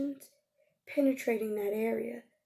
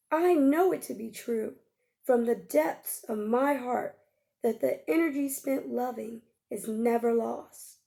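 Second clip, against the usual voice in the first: firm, declaring from the heart; proclamation. Shown as a demonstration. Teacher voicing the proclamation for the listener, firm declaration. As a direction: proclaim it with conviction. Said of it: "now you have to make your proclamation".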